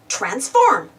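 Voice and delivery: transform said slowly in plain English, trans-FORM; transform, slow and careful; English word transform. Shown as a demonstration. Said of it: "In English, we say".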